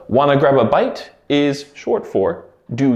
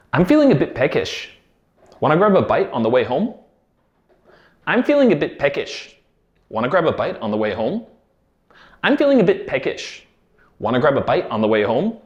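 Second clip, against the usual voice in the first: native speed; faster than usual. Shown as a demonstration. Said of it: "I'm going to say the words three times".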